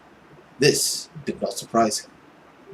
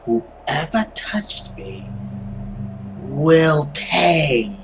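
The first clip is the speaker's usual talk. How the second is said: menacing threat; 2 semitones higher, much slower than usual. Acted. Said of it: "I actually like that reading".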